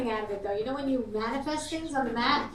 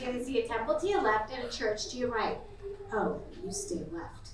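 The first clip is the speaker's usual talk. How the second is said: understated bossy mother GPS, trailing down softer; Jewish mother know-it-all; 5 dB quieter than usual. Acted. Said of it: "like a Jewish mother know-it-all".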